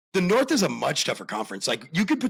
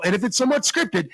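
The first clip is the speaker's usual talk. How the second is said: 1930s announcer; 5 semitones higher than usual. Acted. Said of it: "nineteen thirties announcers".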